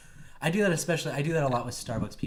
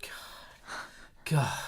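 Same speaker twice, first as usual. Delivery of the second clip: imitated exasperation; 4 dB quieter than usual. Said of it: "She's like".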